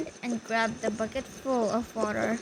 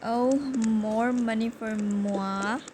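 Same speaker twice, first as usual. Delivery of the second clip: smug robber; 3 dB louder, slower than usual. Retold or imitated. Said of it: "He gave an evil laugh".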